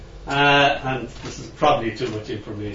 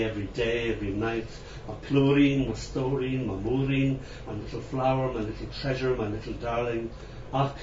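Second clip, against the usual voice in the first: lullaby recitation. Acted. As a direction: murmur it like singing a baby to sleep. Recites Irish lullaby poem.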